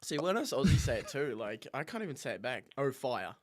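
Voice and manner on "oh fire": "Oh, fire." said in a broad Australian accent; saying "fire" the Aussie way, a bit louder. Shown as a demonstration. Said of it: "my accent just completely kills it too".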